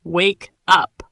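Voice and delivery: "Wake up" drawn out, word by word; slow demo. Shown as a demonstration. Teacher has learners say it together, slowly. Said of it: "Let's say it slowly".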